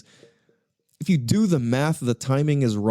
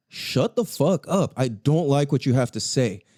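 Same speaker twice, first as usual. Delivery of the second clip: deadpan blunt friend. Retold or imitated. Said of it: "he'll be like".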